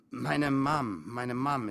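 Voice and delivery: flustered stammer, loud at first; nervous blurted answer. A narrator's reading. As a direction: stumble over the start and repeat it. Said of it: "stammelte ich".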